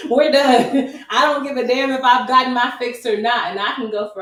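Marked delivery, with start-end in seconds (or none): 0.1-1.0 high, loud, laughing "We're done"; laughing dismissal. Retold or imitated. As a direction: toss off "We're done" with a laugh, higher and louder. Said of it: "what I will do is be like".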